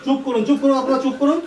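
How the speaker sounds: loud, high commanding shout; shouting for silence. Acted. Doctor silencing panicking family.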